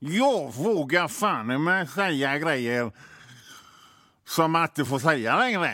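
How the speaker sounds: put-on tough-sounding Gothenburg accent. Describing the type who says this phrase, the speaker mimics a Gothenburg accent. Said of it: "måste man prata sån här göteborgska".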